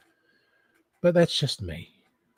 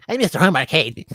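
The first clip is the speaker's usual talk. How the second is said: higher, louder put-on character voice; Joe impression; 3 semitones higher, 5 dB louder than usual. Demonstrating how different the name sounds, in a louder Joe voice. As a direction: call it out as Joe, pitched up and punchy. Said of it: "sound so different in Joe".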